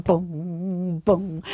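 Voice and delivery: imitated drumbeat. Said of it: "begynder at spille".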